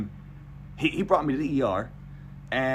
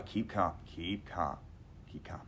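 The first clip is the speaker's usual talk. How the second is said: quietly panicking; 6 semitones lower, 10 dB quieter than usual. Retold or imitated. Patient to himself while waiting, quiet panic. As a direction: talk yourself down, fading quieter. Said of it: "panicking quietly inside".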